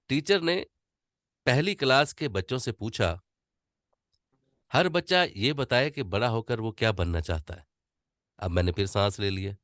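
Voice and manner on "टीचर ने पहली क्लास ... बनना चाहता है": unhurried storytelling with natural pauses; calm story reading. Shown as a demonstration. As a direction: read it as a story, pausing to breathe. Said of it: "जरा मेरी नकल उतारने की कोशिश कीजिएगा". (आराम से ठहर-ठहर कर कहानी पढ़ना)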